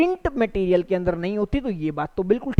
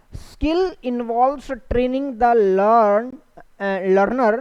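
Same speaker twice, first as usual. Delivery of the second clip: whispered reading; much slower than usual. Shown as a demonstration. Teacher reads question aloud.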